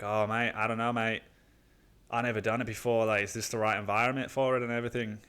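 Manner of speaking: imitation British mate, unsure of himself; loose British accent. Buddy hesitates over trying acid, loosely imitated British accent. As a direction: put on a rough British accent. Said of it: "I'm just gonna say he's British".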